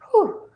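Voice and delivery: high relieved exhale after a sneeze; relieved whew. Real, not acted. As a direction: breathe out the sneeze. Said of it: "It's just allergies".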